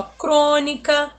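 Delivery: "crônica" slowly with a closed, stressed first O. Shown as a demonstration. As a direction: stretch the "crô" of "crônica" as "oh". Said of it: "ele já é mais fechado".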